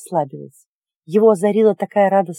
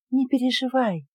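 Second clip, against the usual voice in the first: whispering; 4 semitones higher, 6 dB quieter than usual. Acted. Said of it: "шептало существо".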